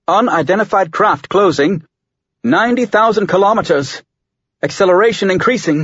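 ship AI voice. Acted. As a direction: report like a calm ship AI. Ship AI Jared reports.

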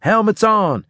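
loud, high-pitched emergency order; shouted command. A narrator's reading. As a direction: shout an urgent warning to the squad. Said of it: "I shouted".

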